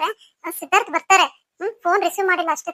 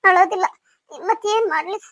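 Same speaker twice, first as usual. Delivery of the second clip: mildly tearful, helpless protest; a touch of tears in the voice. Acted. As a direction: try to stop crying while answering. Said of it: "ನೀನ್ ಈ ತರ ಹತ್ತಿದ್ಯಾ".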